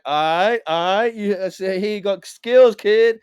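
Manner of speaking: voiced quote of an impressed rapper; imitating impressed approval. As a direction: call out your approval, drawing it out. Voices the rapper's impressed reaction.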